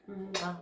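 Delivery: quick spoken "mwah" kiss; imitated kiss sound. Student acting out the kiss she gave him, mock kiss. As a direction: mime a peck with the lips.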